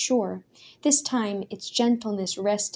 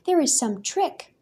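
furious; 6 semitones higher than usual. A narrator's reading. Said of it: "Suddenly Daniel was furious".

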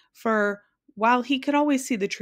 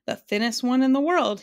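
higher, louder, cheerful reply; bright; 5 semitones higher, 5 dB louder than usual. A narrator's reading. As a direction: answer brightly, with pride in the title. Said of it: "he replied brightly".

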